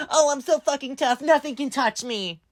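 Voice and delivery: mocking tough teen. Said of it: "that freaky teenager being".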